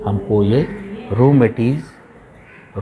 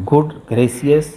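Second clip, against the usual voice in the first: surprised exclamation; 4 semitones higher, much slower than usual. Shown as a demonstration. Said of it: "an exclamation word used to show surprise".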